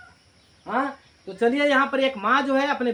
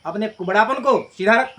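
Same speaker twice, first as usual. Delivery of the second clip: loud stern scold; mock stern mother; 6 dB louder than usual. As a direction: order her to straighten up. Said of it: "तो माँ बोलती है".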